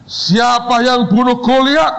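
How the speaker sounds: high loud demand; booming question. Retold or imitated. Founder pressing the student again, loud and high.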